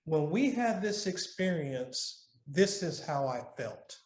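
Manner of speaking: calm, owning the feeling; calm I-statement. Shown as a demonstration. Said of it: "I'm redirecting it back to me".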